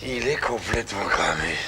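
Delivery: low, hushed muttering; whispered aside. Acted. Prisoner remarking to himself on crazy cellmate, whispered aside. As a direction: whisper it under your breath.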